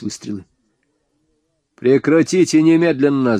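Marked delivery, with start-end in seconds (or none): 1.8-3.4 loud, higher commanding roar; yelling at the top of his lungs. Acted. Hero roars at the shooters behind the door to stop firing. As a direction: bellow the order so they stop shooting. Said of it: "заорал я во всё горло".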